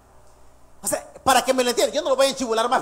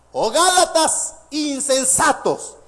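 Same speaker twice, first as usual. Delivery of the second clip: slow scripture reading; 3 semitones higher, much slower than usual. Acted.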